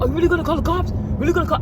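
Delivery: high, incredulous questioning; mock his disbelief; lightly voiced doubting man.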